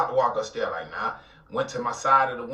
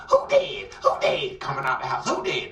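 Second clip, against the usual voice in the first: panicked mom; 2 semitones higher than usual. Retold or imitated. His mom running out of the house asking who died, panicked. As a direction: shriek it like a scared mother.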